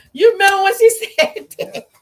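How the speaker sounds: talking through real laughter; laughing. Real, not acted. Teller laughing while reminding listener of sister-in-law, laughing.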